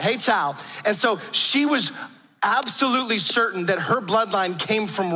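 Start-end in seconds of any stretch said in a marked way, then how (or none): 0.0-0.6 lightly imitated Southern grandmother; Southern belle accent. Preacher showing how grandmother talked, Southern belle accent. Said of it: "That's how she talked".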